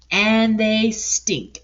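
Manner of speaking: very slow, drawn-out disgust; duck complaining. Acted. Duck griping about the smelly pigs, very slow. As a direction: drag it out in disgust.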